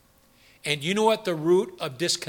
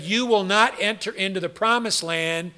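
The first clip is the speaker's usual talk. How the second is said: voice of God; 3 semitones higher, 7 dB louder than usual. Retold or imitated. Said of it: "He said".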